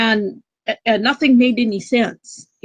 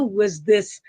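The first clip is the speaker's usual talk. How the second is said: ordinary talk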